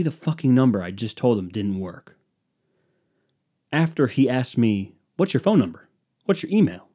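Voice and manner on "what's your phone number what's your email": questioning agent. Retold or imitated. Mimicking agent's list of questions.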